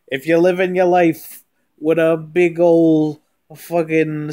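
loud, high, slow hammy proclamation; over-the-top hype voice. Acted. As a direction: belt it like a cheesy motivational guru. Goofy spaghetti sermon bit.

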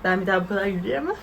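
quick, mocking read of her excuse; mocking quote. Mocking the viewer who ghosted a date over walking, quick sarcastic quote. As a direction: rattle it off as a sarcastic imitation. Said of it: "kraliçenin ghostlama sebebine bakar mısınız".

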